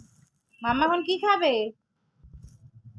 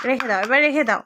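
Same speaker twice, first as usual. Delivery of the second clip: laughing; 4 semitones lower than usual. Real, not acted. Parent laughing at toddler's game.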